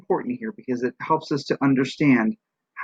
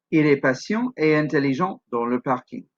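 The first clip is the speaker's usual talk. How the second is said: "Il est patient et intelligent dans le parking" in French phrases, falling at the end; multi-part intonation; 2 semitones higher than usual. Shown as a demonstration. Teacher giving a longer example, French phrases ending down on "parking". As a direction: separate tone groups, closing down on "parking". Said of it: "Sometimes they have more parts to them".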